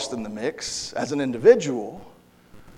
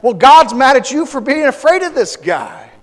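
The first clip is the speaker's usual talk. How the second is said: raised, higher indignant voice; rally the timid crowd, louder; David's indignant call; 7 semitones higher, 6 dB louder than usual. Retold or imitated. Preacher voicing David rebuking the scared Israelites, loud and high. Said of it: "And David's like".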